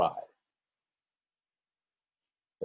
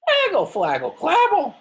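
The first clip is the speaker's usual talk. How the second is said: put-on high, loud baby babble; toddler babble; 7 dB louder than usual. Teacher voicing baby Trixie babbling, high and loud. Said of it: "said Trixie again".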